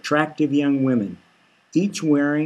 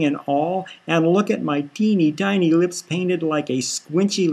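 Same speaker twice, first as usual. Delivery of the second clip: a touch higher, gushing and pleased with herself; lightly voiced showy Sis; 4 semitones higher than usual. Sis gushing to Vinny about her geisha costume, lightly voiced and showy. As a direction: preen and show off, a little breathless with delight.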